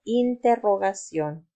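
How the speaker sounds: interrogación said carefully, syllable by syllable; careful model word. Shown as a demonstration. Teacher models interrogación for kids to repeat, careful and clear. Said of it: "Repite conmigo".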